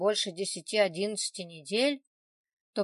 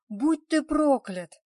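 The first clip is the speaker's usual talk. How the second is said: furious shout; 6 semitones higher, 7 dB louder, slower than usual. A narrator's reading. Olga curses Vladik.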